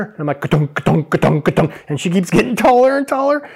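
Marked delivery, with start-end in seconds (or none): 0.4-1.7 punchy rhythmic ka-tunk of a pump; imitated pump noise. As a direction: mimic a chair being pumped up, higher. Imitates pumping the salon chair.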